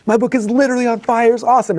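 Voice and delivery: high-pitched mock TV hype; excited self-quote. Himself on hotel TV bragging about his burning book, excited.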